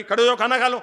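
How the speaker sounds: loud, high bossy wife call; wife shouting at her husband to come eat, loud. Retold or imitated. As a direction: yell it from the kitchen like an impatient wife. Angry wife calls Socrates.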